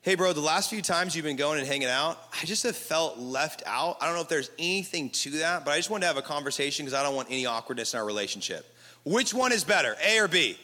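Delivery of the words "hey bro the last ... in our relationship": calm honest tone. Shown as a demonstration. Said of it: "Option B".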